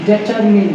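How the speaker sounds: डिटरमिन with short "min"; short final vowel on डिटरमिन; corrected pronunciation. Shown as a demonstration. Teacher drilling the answer for students, corrected. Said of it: "क्या बोलेंगे".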